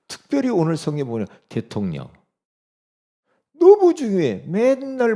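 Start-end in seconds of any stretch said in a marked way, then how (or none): 3.6-5.2 high, loud outburst; preaching shout. Acted. Preacher shouting the point to the congregation.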